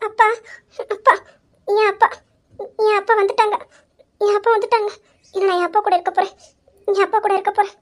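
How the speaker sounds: halting, teary reunion with father; tearful. Acted. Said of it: "அழாதம்மா, அழக்கூடாது".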